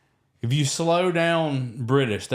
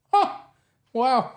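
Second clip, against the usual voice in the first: stunned wow; 11 semitones higher than usual. Retold or imitated. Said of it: "And I was like".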